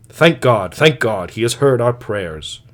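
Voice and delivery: missionary rejoicing that his prayers were answered, fervent; fervent thanks. Acted. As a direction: burst out in triumphant relief. Missionary hears she will repent.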